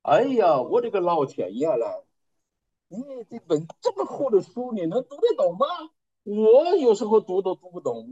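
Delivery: a hint of a proud father scoffing; mildly mock disbelief at the old aunt. Father doubts his unschooled aunt, mildly mocking. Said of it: "他爸就很骄傲地说".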